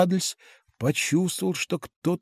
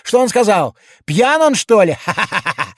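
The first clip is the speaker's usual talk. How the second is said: higher, louder jeer ending in a laugh; mocking laughter; 6 semitones higher, 5 dB louder than usual. A narrator's reading. Drivers jeering at the giant, higher and laughing. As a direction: jeer then burst out laughing. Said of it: "Заливались кондуктора и кучера".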